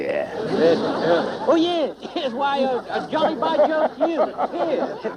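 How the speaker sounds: hammed-up British officer accent, pitched high; a put-on British accent, bluffing; fake British accent. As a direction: play the British toff, jolly and put-on. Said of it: "drop that dreadful accent now".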